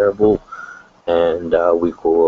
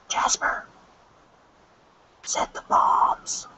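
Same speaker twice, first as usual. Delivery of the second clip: slow hushed whisper; secret agent whisper; 5 dB quieter, slower than usual. Pretend. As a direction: whisper like a spy sneaking around. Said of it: "imagine being a secret agent".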